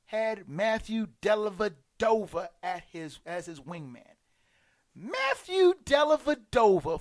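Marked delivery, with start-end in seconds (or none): 5.0-7.0 higher, louder incredulous name; exasperated exclaim. Real, not acted. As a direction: blurt the name in disbelief. Mocking the weak sidekick.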